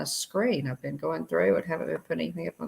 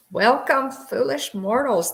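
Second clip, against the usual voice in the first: booming demon lord; 8 semitones higher, 5 dB louder, slower than usual. Pretend. Haunted Mansion host greeting.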